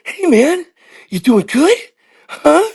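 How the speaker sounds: high, punchy questioning bursts; movie-star impression. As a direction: chirp it as a caricatured tough-guy hello. Repeats his Wahlberg catchphrase voice.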